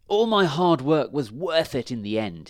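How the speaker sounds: hint of a crow pleased with its effort; lightly voiced crow. A narrator's reading. Crow's pleased thought after drinking.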